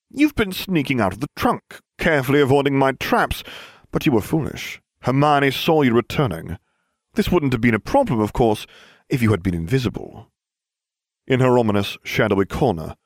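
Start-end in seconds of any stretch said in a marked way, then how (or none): 0.1-10.3 haunting accusing voice, raised pitch; spooky menacing tone from the shadows; eerie voice. Acted. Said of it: "an eerie voice".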